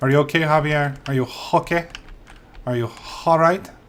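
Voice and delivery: bad put-on Spanish accent. Speaking to someone you have just decided to call javier, in a bad hispanic accent. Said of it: "that's the best best Hispanic accent I can do".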